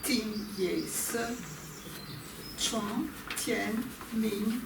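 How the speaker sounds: very slow, measured recital of a classical poem; slow, deliberate verse reading; poem recitation. Acted. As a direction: recite it slowly, syllable by syllable, with pauses.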